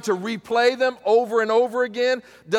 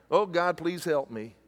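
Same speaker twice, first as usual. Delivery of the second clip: soft, lower, half-hearted mock plea; wimpy prayer; 6 semitones lower, 6 dB quieter than usual. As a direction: pray as if it barely matters. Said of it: "some wimpy prayer".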